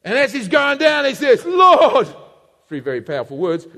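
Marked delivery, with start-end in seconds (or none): 1.4-2.1 loud, high, drawn-out call; acted drowning plea; desperate cry. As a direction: cry out as you go under. Acts Peter sinking, crying out.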